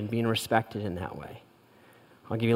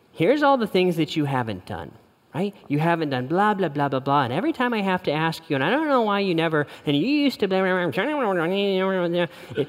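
quick, higher, complaining nag trailing into blah blah; mock nagging; 4 semitones higher than usual. Wife nags husband about undone chores, mock nagging tone. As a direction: rattle off a list of grievances. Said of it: "tone of communication that you just heard".

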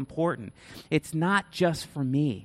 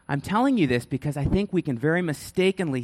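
laughing. Real, not acted.

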